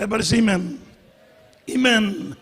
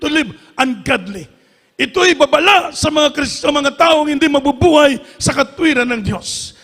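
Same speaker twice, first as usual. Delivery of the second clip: emphatic, insistent sermon delivery; impassioned preaching; 3 semitones higher, 4 dB louder than usual. Real, not acted. Pastor warning the congregation from the Bible, impassioned preaching. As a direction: press the warning home to the congregation.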